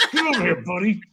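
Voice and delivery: mock-stern order to a buddy; stern inflection. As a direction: summon him like he's in trouble. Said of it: "it's the inflection".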